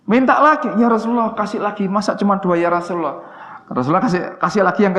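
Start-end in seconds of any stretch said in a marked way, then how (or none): 0.1-3.4 a hint of an insistent young man pleading. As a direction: ask again, pressing for more. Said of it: "Anak muda mendatangi Rasulullah".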